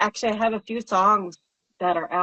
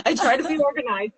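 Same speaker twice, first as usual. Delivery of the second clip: laughing; 9 semitones higher, faster than usual. Real, not acted. Laughing at her own messiness.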